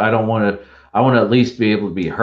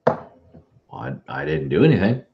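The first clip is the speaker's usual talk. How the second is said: echoey; 4 semitones lower, faster than usual. Real, not acted. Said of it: "you sound like you're from across the room now".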